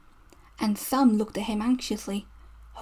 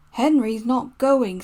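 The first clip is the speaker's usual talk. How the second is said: slow, louder, rudely refusing; 5 dB louder, slower than usual. Acted. Gordon rudely refusing the Fat Controller, slow and loud. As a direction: plant the refusal bluntly and slowly. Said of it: "said Gordon rudely".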